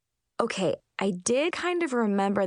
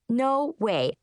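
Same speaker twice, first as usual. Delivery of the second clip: gasping; 4 semitones higher than usual. Acted. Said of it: "I gasped".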